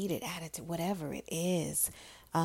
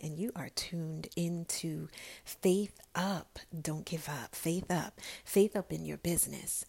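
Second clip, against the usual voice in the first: closing blessing. Acted. Host sending off listeners, in a hushed whispered blessing.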